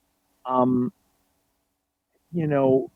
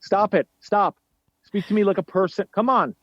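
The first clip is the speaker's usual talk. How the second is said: higher-pitched retold scolding; acted parental exasperation; exasperated parent; 5 semitones higher than usual. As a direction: plead with a whining child to quit. Parent scolding daughter in story.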